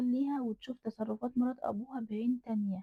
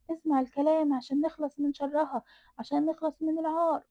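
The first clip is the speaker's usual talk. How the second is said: higher and louder, pushing him to do it; shrill urging; 7 semitones higher, 5 dB louder than usual. A narrator's reading. Stepmother pushing the father to throw the girl in the well, loud and high. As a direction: urge him on at the top of your voice.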